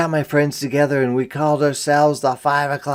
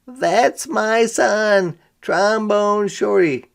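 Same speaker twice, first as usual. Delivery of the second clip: proud mom; 6 semitones higher, slower than usual. Acted. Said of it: "held me up in the air and said".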